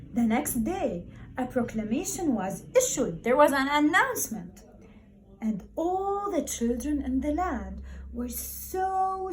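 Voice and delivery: lively, expressive storybook reading voice; reading to children. Acted. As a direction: read it to the class like a favourite picture book. Teacher reads story to class.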